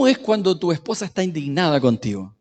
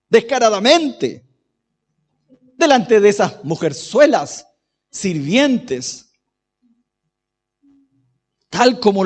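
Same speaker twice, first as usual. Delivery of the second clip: hammed-up indignant woman, slow and drawn out; mock indignation that sinks to a hushed last jab; indignant wife; slower than usual. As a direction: play a scornful wife, pausing between phrases. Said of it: "voy a hablar como mujer indignada".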